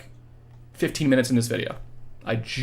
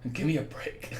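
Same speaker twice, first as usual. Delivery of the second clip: tired plea; 3 semitones higher, 9 dB quieter than usual. Real, not acted. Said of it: "My brain hurts".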